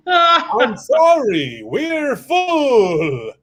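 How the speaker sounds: slow, drawn-out cry of a shout; wailing maitre d'. Acted. Vampire maitre d' turning the cows away, wailing. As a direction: moan the refusal like a tortured host.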